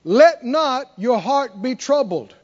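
slow and deliberate, LET stressed; slow, weighty scripture reading; slow solemn quote. Acted. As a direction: weigh every word of the verse.

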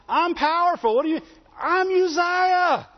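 a proud king brushing off the priests; arrogant king. Acted. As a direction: puff yourself up as the mighty Uzziah. Preacher voices proud king Uzziah.

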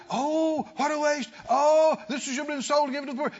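whiny, fast mock lament, cry in voice; mocking the complainers with a fast, crying whine. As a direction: ham up a fake sorrowful complaint. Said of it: "when people are talking like that".

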